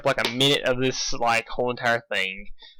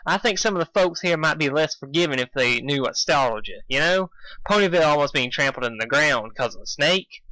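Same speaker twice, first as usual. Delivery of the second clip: sighed advice; 3 semitones higher than usual. Acted. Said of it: "sighed Applejack".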